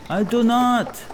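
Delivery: high, distant voice of the Dane. Acted. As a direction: answer coolly over the shoulder. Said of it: "said the Dane".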